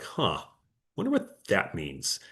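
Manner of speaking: soft, slow, puzzled musing. Retold or imitated. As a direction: wonder aloud, a bit lost. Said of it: "other ones are like".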